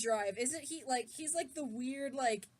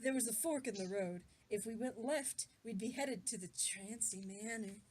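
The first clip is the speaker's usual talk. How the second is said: lower, softer reading voice; story narration; 4 semitones lower, 5 dB quieter than usual. A narrator's reading. Reading fan fiction aloud to friends, low narration. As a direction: read the story out evenly and low.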